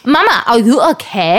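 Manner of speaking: imitated child with a light German accent; little German tourist. Mom showing how her son sounds, lightly German-accented child voice. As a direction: playfully mimic a tiny German tourist. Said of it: "he sounds like a little".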